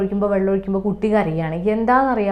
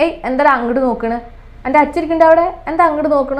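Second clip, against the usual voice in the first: put-on grandpa jokingly teasing the baby; teasing joke; 3 semitones higher, 4 dB louder, faster than usual. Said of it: "തമാശ രൂപത്തിൽ കളിയാക്കി".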